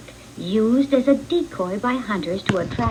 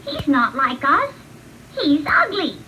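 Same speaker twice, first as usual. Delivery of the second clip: ducklings sneering; 5 semitones higher than usual. Acted. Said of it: "and quacked".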